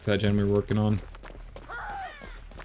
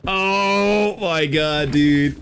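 gym bro amazement; 5 semitones higher, 4 dB louder, much slower than usual. Real, not acted. Amazed by the win.

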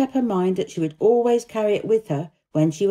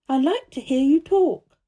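put-on high, louder girl's voice; little girl from India; 7 semitones higher, 4 dB louder than usual. A narrator's reading. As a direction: tell it earnestly in a pitched-up girl's voice. Narrator voices Mary.

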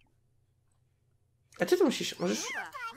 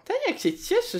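put-on squeaky baby delight; 14 semitones higher than usual. Baby Sim delights, high voice.

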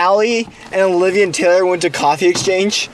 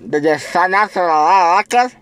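talking through a mouth guard; slurred words around a mouth guard. Real, not acted. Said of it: "with this mouth guard in my mouth".

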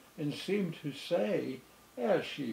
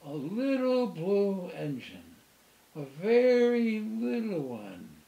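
high, louder excited call; 6 semitones higher, 4 dB louder than usual. A narrator's reading. Toy clown spotting a new engine, high excited call. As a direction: spot the engine and call to everyone. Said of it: "the little clown called out".

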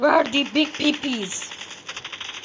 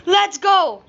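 excited cheer; 6 semitones higher, 5 dB louder than usual. Real, not acted. Winning the match, celebrating.

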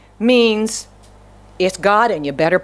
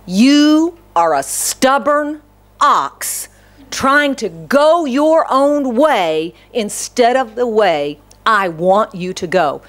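voice from heaven; slower than usual. Acted. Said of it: "says to Saul".

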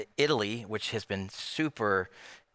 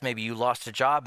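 normal talking voice

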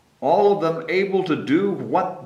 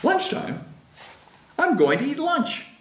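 relieved Gerald; 11 semitones higher than usual. Acted.

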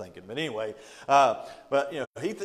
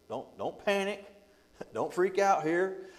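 lightly acted reassurance, pitched up; higher-pitched, playful calm-down; mock calming; 4 semitones higher than usual. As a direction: talk someone down in a higher voice. Preacher voices prophet calming the king.

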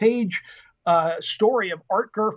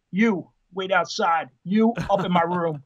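Marine captain mode. Retold or imitated. Dad ordering recruiter and son apart, imitated captain's command. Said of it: "snapped back into Marine Corps captain mode".

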